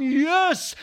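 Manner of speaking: high exultant yes; triumphant cheer. Real, not acted. Fan celebrates trouncing a rival, triumphant. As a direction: cheer as if your team just won. Celebrating the win before the song.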